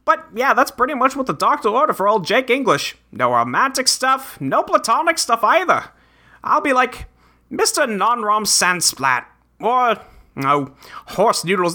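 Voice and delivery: lightly voiced quirky adventurer; a hint of folksy bravado; Jake character voice. Reads Jake's lines in role.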